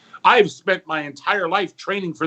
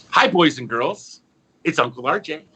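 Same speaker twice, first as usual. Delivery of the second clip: put-on kids show host.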